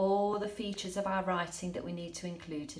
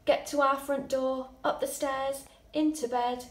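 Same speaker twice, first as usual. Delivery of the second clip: hurried flight; 6 semitones higher, 5 dB louder than usual. Shown as a demonstration. Fleeing home in the story.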